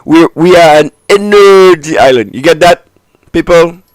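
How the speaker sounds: high, loud mock Indian accent. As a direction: push a hammy Indian accent at the crowd. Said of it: "that Indian accent".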